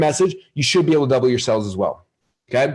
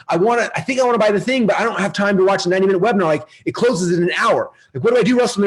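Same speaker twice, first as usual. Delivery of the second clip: panicky customer; 6 semitones higher than usual. Retold or imitated. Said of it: "They're like".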